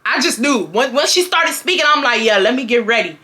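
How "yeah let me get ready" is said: laughing. Retold or imitated. Retold reply, laughing through.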